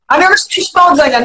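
rushed, fast argumentative delivery; talking fast. Real, not acted. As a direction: rattle it off too quickly. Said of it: "תדבר יותר לאט".

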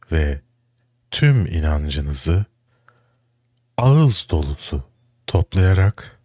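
slow, spaced-out breathing instructions; mock breathing guide. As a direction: lead listeners through a breath, pausing between cues. Mock guided breathing exercise for listeners.

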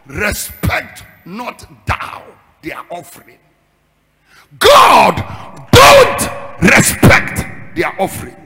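crying shout, then slow pleading; anguished cry. Acted. Moses crying out to God against the rebels, shouting. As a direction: wail it up to God.

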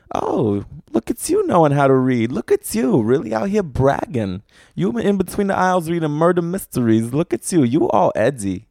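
lightly hammed-up, playful admiration; mock flirty teasing. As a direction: tease them like an over-keen flirt. Acted flirting with a bookstore stranger.

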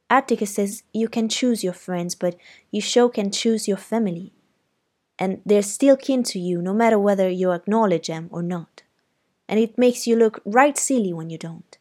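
speaking up. Acted. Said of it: "James spoke up".

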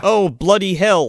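slow, high fake British exclamation; mock British slang accent. Podcaster mocking the American girl's slang, fake British accent. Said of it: "British, Irish, and Scottish vernacular".

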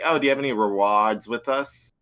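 casual Boston accent, R dropped in "rewards"; Bostonian accent. Shown as a demonstration. Cashier asking customers about rewards, light Bostonian accent. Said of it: "using a Bostonian accent at the register".

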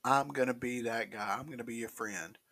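words round a sip of drink; while sipping a drink. Real, not acted. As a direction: talk between sips of a drink. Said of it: "Pardon me as I drink my energy drink".

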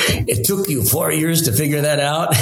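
chuckling retold punchline; amused mentor teasing, laughing; laughing through the quote. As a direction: let the laugh break into the line. Quoting Andre while laughing.

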